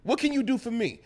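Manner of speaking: hammed-up pimp yelling, laughing; pimp act. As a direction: demand it like a swaggering pimp. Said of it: "go on some pimp shit".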